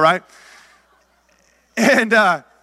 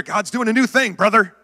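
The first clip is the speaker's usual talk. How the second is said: churchy talk. Retold or imitated. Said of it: "that's how you talk in church".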